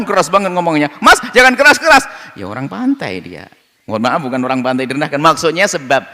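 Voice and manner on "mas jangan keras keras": mock hushing. Villager hushing loud coastal man.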